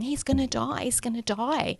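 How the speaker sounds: high, frightened repeating; blurting out in panic; mother in panic telling her husband; panicked. Retold or imitated. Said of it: "I remember running down and saying".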